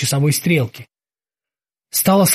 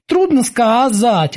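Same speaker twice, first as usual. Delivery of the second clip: high, slow bosun voice; high character voice, serious; Kiki, unsmiling; 7 semitones higher, slower than usual. A narrator's reading. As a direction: answer in earnest, pitched high and unhurried. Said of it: "ответил Кики без тени улыбки".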